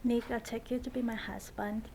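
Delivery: bride repeating her vow sincerely; earnest vow echoed back; saying wedding vows. Real, not acted. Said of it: "would you repeat after me?".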